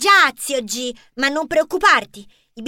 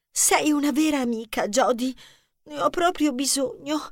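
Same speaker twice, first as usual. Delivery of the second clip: soft, weary voice; drained, sighing softness; worn out; 5 dB quieter than usual. Acted. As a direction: sound spent after the race. Exhausted diva thanks her friend.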